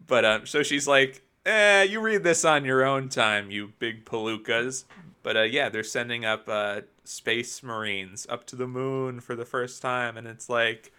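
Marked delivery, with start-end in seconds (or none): 1.5-4.8 slow gruff brush-off; lightly gruff old-timer; gruff dismissive Molly. Retold or imitated. Molly quoted in recap.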